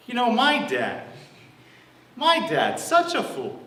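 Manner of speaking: high-pitched griping about Dad; exasperated older son. Acted. Older son complains about his father.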